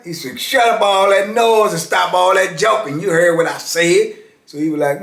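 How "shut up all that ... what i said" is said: higher-pitched mock scolding; acted-out stern order, pitched up; retold officer's rebuke. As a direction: imitate an officer cutting off the chatter. Retold officer rebuking joking inmate.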